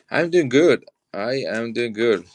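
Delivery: greeting called back to a dealer friend; cheery reply. Real, not acted. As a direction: toss back a bright hello. Answers a passing friend's greeting.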